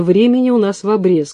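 ordinary delivery

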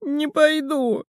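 high, slow squeaky refusal; a frightened little squeak; squeaky high Не пойду!. A narrator's reading. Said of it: "пискнул Мел".

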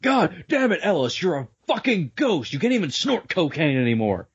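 high mock anguished cry; overacted death scene. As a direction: ham up the grief. Mock grief at ghost.

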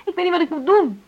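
high, loud, breaking despair; desperate outburst; anguished cry. Acted. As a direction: cry out in helpless distress.

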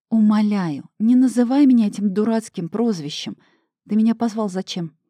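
irritated. Acted. Annoyed at husband's nickname.

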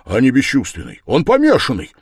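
loud, urgent stage whisper; fervent, forceful rebuke; heated whisper. A narrator's reading. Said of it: "горячо прошептал Разумихин".

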